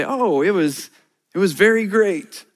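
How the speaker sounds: stiff, overly formal answer; a touch of awkward stiffness, caught off guard; mildly awkward reply to the museum guide. Retold or imitated. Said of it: "I can be awkward".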